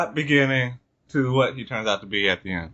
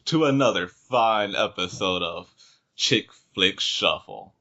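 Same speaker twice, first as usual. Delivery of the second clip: sexy voice; 6 semitones lower than usual. Pretend. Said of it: "I'll use my sexy voice that time".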